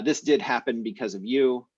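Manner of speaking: "did" given the main stress; emphatic DID. Shown as a demonstration. Teacher applying the emphatic translation, stress on "did". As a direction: lean firmly on "did". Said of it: "I would use the English emphatic past tense".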